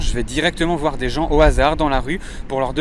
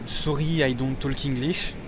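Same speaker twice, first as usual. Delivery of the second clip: put-on halting English in a thick French accent, softer; 6 dB quieter, slower than usual. Frenchman dodging a request for money, put-on French accent. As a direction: play the Frenchman who speaks no English. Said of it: "invoquer mon accent français et faire croire que je parle pas anglais".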